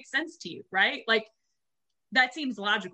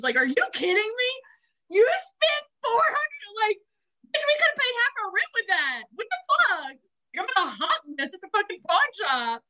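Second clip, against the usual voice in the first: outraged rant; 11 semitones higher than usual. Retold or imitated. A girlfriend yelling at her boyfriend over a watch, outraged shout. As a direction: shriek in disbelief at the price. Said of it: "it was just like".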